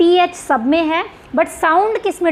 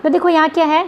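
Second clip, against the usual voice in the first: usual speaking voice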